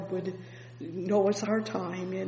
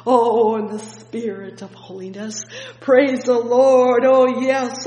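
preaching at full force; 3 semitones higher, 11 dB louder than usual. Acted. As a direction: cry it out to the hall. Preacher shouting praise.

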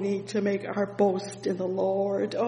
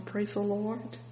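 ordinary talk, nothing marked

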